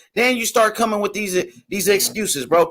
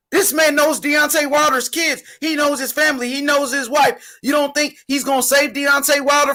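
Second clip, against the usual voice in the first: raised, insistent shouting in the middle of an argument; heated shout; 4 semitones higher than usual. Real, not acted. Shouting at his co-host about the trainer stopping the fight, fired up.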